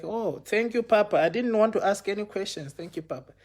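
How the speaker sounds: high-pitched, deferential thanks; retold eager gratitude. Retold grateful reply to mentor.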